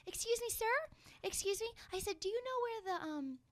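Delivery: high, soft sugary voice; sweet polite ask. Retold or imitated. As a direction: play the innocent lost tourist. Sweet voice asking stranger directions.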